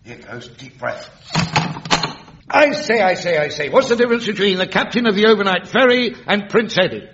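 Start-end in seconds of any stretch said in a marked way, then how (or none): 2.5-7.1 music hall comic. Acted. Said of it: "wrong act".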